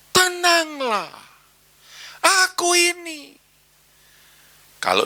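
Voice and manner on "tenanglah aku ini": slow, drawn-out and steady; slow calm assurance. Acted. Jesus reassures disciples, slow and calm. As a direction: let each word land gently. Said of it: "Yesus seisok ngomong".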